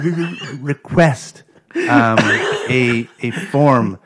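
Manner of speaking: stammering out each word, slowly; mock stutter. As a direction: imitate a heavy stutter, halting. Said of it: "really bad stutter".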